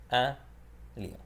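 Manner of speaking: Un lion in careful French, nasal un; French demo. Shown as a demonstration. Teacher modelling Un lion for learners, careful French. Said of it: "you would say un lion".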